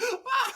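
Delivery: brief comic yelp; imitated scream. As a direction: squeal out a retold scream of pain. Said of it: "screaming, like".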